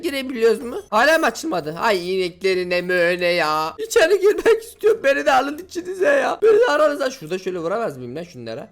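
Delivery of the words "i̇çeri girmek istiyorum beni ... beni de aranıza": high, loud fake whimper mixed with laughter; mock crying. Gamer pretends to beg the cows to let him in, hammed-up crying. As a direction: beg to be let in like a whining kid.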